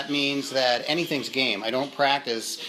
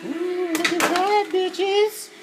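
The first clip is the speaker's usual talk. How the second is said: excited; much slower than usual. Real, not acted. Delighted at the finished dish.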